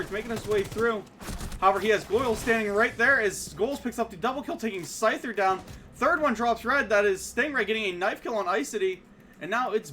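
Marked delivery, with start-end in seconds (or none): 1.6-8.5 louder, quick hype call; excited play-by-play. Real, not acted. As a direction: ride the action as kills drop. Caster calls the round's kills.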